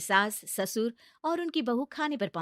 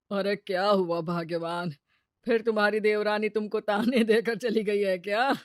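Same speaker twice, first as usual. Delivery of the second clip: teasing husband; 6 dB louder than usual. Acted. Husband teases wife.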